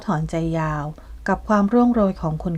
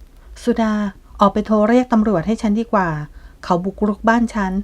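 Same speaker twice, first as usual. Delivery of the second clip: alarmed command; 2 semitones higher, 3 dB louder than usual. Acted. Kasma calls for police.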